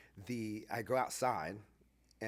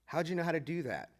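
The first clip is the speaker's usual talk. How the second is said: higher, excited amazement; amazed asking; 6 semitones higher, 4 dB louder than usual. Retold or imitated. Conference people amazed at how he handled it. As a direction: marvel at what he did.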